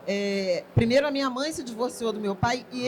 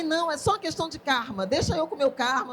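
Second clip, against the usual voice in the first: laughing reply; 4 semitones higher, faster than usual. Retold or imitated. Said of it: "E eu falei".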